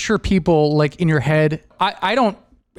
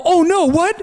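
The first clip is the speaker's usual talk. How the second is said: much higher, startled yelp; as if the floor just dropped out; high mock shock; 11 semitones higher, 3 dB louder than usual. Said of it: "and I go".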